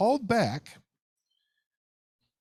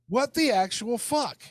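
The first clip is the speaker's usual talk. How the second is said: exasperated cry; 9 semitones higher, 3 dB louder than usual. Real, not acted. Ranting about seller.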